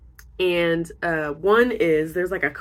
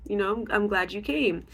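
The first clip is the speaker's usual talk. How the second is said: kind therapist; 5 semitones higher than usual. Retold or imitated. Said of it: "And the woman's like".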